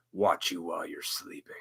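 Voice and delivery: breathy ominous whisper, barely voiced; spooky whisper. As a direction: whisper it like a creepy secret. Creepy Santa watching sleeping kids.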